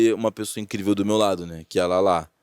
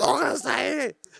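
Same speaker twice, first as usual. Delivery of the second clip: raspy, hoarse smoker's voice, shouting much higher. Retelling a woman shouting a name into the microphone, in a raspy smoker's shout. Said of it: "aquela voz rasgada, tá ligado? De fumante".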